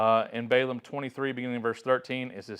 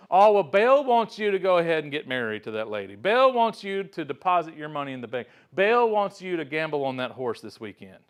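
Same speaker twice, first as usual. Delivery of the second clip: mock fortune teller; 3 semitones higher, 5 dB louder than usual. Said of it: "he would convince those people".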